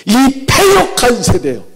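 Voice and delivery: high, loud and slow, scolding the people; a furious prophet berating the crowd; angry outburst. Retold or imitated. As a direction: Moses scolding the grumbling people in anger. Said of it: "그리고 화를 냅니다".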